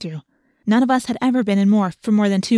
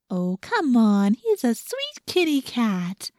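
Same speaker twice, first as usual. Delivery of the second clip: doting; slower than usual. Acted. Doting on the cat.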